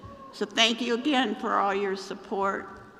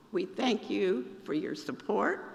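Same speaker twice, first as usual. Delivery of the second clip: losing voice. Real, not acted. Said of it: "Losing my voice".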